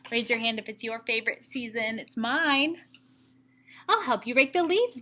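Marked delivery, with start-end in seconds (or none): 3.9-5.0 I'll help you rake the leaves, higher and quick; eager little helper, voice lifted and fast; eager offer. Acted. Splat offering Mom help, eager and quick. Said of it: "Splat offered".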